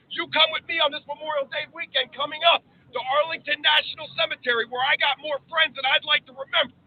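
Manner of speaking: rising oratory, building to outbursts; formal speech. Acted. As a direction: deliver it like a senator on the floor. Recites a patriotic speech.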